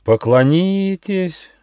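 high, slow desperate plea; evil fairy begs pitifully; begging. A narrator's reading. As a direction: beg with the last of your strength. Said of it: "умоляла фея зла".

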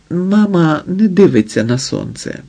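plain reading voice

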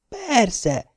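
sudden high eager reply; perking up. A narrator's reading. Old patient perking up when asked about the TV series. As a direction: brighten up all at once. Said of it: "élénkült föl hirtelen a beteg".

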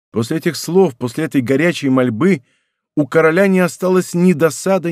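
plain reading voice

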